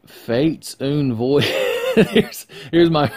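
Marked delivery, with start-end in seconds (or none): 0.1-1.5 fake French. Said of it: "I prefer en français".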